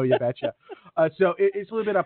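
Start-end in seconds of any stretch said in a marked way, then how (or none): 0.0-0.5 put-on Minnesotan accent. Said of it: "gotta get my Minnesotan accent back".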